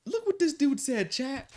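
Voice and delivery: high, shocked gossip voice; a stalker streamer exposing a clip; mock gasping streamer. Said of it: "they're gonna be like".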